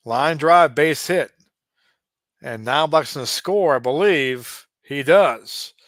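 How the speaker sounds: announcer's excited call of the run scoring; excited hit call. Acted. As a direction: call the base hit like a broadcaster. Calling a base hit live.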